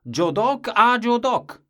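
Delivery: put-on high, loud, slow old-man cry; grandfather's exclamation. A narrator's reading. Grandfather announcing his only word, loud and high. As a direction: call it out big, a man lost in one word.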